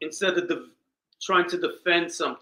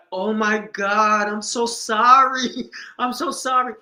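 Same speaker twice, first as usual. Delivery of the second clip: higher, slow, louder gushing sorry with a laugh; embarrassed apology; 4 semitones higher, 4 dB louder than usual. Retold or imitated. Girlfriend apologizing to the sister after the reveal, slow gushing laugh.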